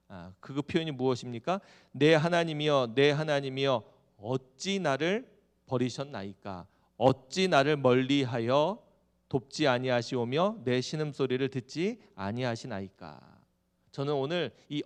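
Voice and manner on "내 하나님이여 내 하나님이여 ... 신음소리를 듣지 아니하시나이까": slow, measured psalm quotation; scripture recitation. Acted. Preacher quoting David's cry to the congregation, slow scripture recitation. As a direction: recite the lament deliberately, stretching the phrases.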